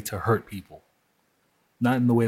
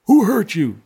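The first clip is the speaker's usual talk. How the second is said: high, loud mocking whine; hammed-up scornful mimicry; mocking "who hurt you"; 9 semitones higher, 8 dB louder than usual. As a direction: sneer it like a smug stranger. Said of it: "When people say".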